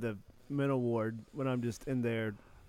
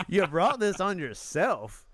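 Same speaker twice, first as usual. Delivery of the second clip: slow, disbelieving echo of the line; incredulous; 4 semitones higher, much slower than usual. Real, not acted. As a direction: drag it out in amused disbelief. Incredulous repeat of the quote.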